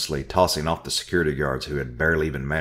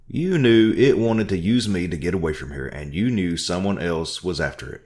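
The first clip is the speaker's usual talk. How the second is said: loud, higher angry outcry; crying out; 3 semitones higher, 5 dB louder than usual. Acted. Narrator accusing Orville, crying out angrily. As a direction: accuse him at full voice. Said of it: "I cried".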